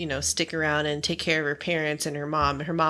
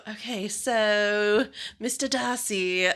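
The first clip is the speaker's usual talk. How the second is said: slow, higher mock English accent; put-on accent; 4 semitones higher, slower than usual. Asked to keep the accent, she tries it slowly. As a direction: ham up a British lilt for a beat. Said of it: "finish the podcast in that accent".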